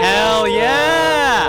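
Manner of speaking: very high, loud whoop; excited cheer. Real, not acted. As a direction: cheer it with real glee. Table cheers the spell.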